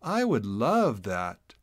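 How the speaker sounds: slow, smiling and gentle; smiling reply. Acted. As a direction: say it with a smile. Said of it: "Francine smiled".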